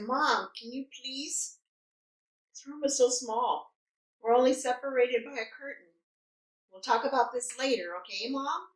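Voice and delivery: softly shushing mom; retold patient pleading. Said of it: "I'm trying to be patient".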